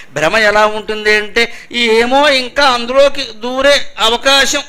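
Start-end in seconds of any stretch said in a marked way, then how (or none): 1.7-4.6 slow, higher voice of a clinging soul; a hint of the soul longing to return; hopeful soul's voice. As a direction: lightly act the hoping spirit. Voicing the soul's illusion.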